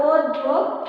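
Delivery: "অধ্যক্ষ" sounded out od-dho-kkho; doubled consonant. Shown as a demonstration. Teacher shows the doubled sound in syllables. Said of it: "দ্বিতীয় উচ্চারণ, উচ্চারিত হবে".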